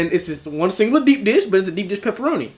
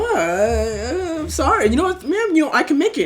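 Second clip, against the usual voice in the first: high flustered apology; 10 semitones higher than usual. Retold or imitated. Worker panicking and apologizing to the customer, high flustered voice. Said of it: "I'm just like".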